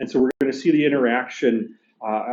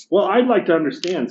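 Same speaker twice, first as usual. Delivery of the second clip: higher, indignant working-class ghost; gruff big ghost; 6 semitones higher than usual. Acted. Teacher reading the ghost complaining to the bright spirit, indignant. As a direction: bluster like an aggrieved ghost.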